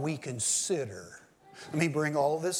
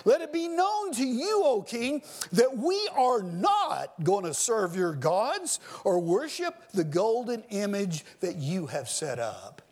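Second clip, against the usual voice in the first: a hint of defiant courage, starting high; lightly voiced refusal to a king; defiant young men to the king; 4 semitones higher than usual. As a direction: say it as the three men facing the king. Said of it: "That's what they are doing".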